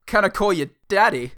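high, loud comic impression; hammed-up, wheedling film-star imitation; Christopher Walken. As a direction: put on a creepy celebrity voice. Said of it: "No, Christopher Walken".

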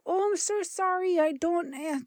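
imitating the apologetic Canadian agent, badly; bad Canadian accent. Imitating the apologetic Canadian service lady in Canadian accent. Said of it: "that terrible Canadian accent".

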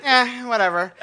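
groggy and pissy. Retold or imitated. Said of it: "groggy and pissy".

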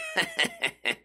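high-pitched mock cackle; mimicked jeering high laugh; imitated mocking laughter. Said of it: "Some douchebag is laughing at him".

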